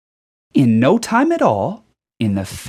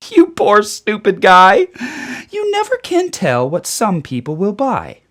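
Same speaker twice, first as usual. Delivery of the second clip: mocking gloat; 4 semitones higher, 6 dB louder than usual. A narrator's reading. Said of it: "I laughed at the Lorax".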